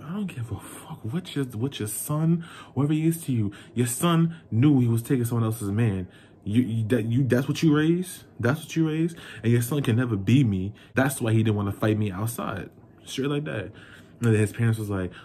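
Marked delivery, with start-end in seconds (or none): 0.0-10.7 raised pitch, building challenge; indignant confrontation. Retold or imitated. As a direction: confront the parents in mounting disbelief. Acted confrontation with rival's parents.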